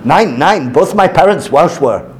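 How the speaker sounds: lightly imitated German accent with German word order; mock German accent. Lecturer voicing the German cartoon figure, light German accent. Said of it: "Oh yeah, German".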